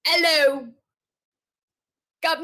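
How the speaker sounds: hammed-up British greeting; attempted British accent. Contestant opens her Sherlock impression, attempted British accent. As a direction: have a go at a British hello. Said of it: "I don't know how to do British accents".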